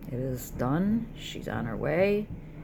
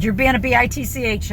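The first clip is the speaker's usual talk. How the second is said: loud, high furious yell at mom; screaming at her mother; retold scream; 7 semitones higher, 11 dB louder than usual. Retelling a yell at mom, loud and furious. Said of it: "I started screaming".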